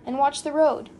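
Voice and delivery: loud urgent warning; shouted. A narrator's reading. Passenger to a careless driver, shouted. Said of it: "Nately shouted".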